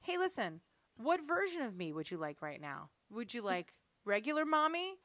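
softly put, mock-patient mommy voice; gentle asking. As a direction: ask the kids gently, with a warning underneath. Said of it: "I gently ask them".

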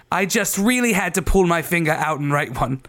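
dubious put-on English accent. Reading a listener's review, put-on English accent. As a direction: read it in a mock English accent. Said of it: "read out in a dubious English accent".

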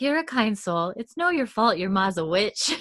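imitating a dreamy, wistful girl; lightly put-on wistful, lilting voice; wistful Luna Lovegood. Joni consoling her companion, imitated wistfully. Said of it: "like, a very wistful voice".

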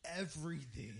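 high, loud mock-angry one-word answer; imitating furious friend. Josh raging in the car.

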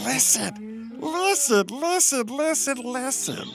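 pleading. Acted. Gopher begging the dog.

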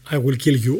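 put-on quick recap in a Serbian accent; Serbian-accented English. Retelling the Serbian giant's threat to the driver, Serbian accent. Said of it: "όπως θα σας το κάνω με την προφορά αυτή".

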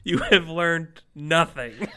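slow, grave pronouncement; mock solemn. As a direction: drag it out like a stern judge.

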